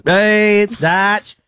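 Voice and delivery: chirpy blokey impression of a mate; Smith Tech impression. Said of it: "pretty good Smithy, Smith Tech impression".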